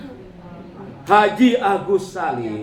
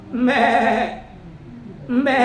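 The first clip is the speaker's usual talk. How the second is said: goat bleat; 5 semitones higher than usual. Retold or imitated. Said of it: "saya dengar suara kambing".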